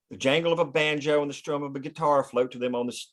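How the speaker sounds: ordinary delivery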